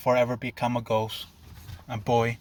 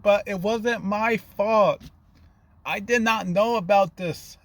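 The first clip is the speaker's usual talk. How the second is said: higher-pitched, pleading self-defence; defensive protest; 8 semitones higher than usual. A narrator's reading. Zuko defends himself to his upset classmates, defensive protest. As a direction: protest your innocence in a raised pitch.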